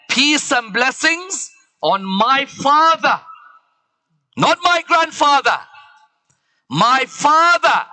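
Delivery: high, slow declaration landing hard on "father"; ringing correction, "father" stretched and falling; emphatic insistence. Acted. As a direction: proclaim it, drawing out "my father". Zainab insists father, not grandfather.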